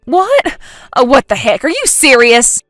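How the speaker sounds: loud, rising disbelief; shocked outburst. Acted. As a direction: blurt it out in horrified shock. Jen learns she stole wrong husband.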